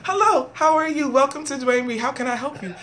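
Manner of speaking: lightly acted store clerk; a hint of customer-service politeness; cashier greeting. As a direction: greet customers like a cashier, starting high and easing down. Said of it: "I work for Dwayne Reed as a cashier".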